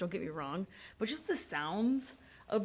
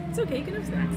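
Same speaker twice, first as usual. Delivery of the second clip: put-on baby talk voice; 11 semitones higher, 5 dB louder, faster than usual. Teasing coworker eating on air.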